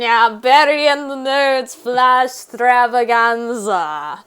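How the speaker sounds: laughing title. Real, not acted. Laughing repeat of show title.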